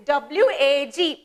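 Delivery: W A G spelled very slowly; slow spelling. Shown as a demonstration. Teacher spelling wag slowly for children. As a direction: draw out each letter. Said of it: "what is this?".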